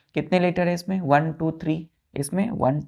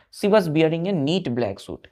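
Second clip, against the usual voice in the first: slow dictation; much slower than usual. Shown as a demonstration. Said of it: "rereading sentence for dictation".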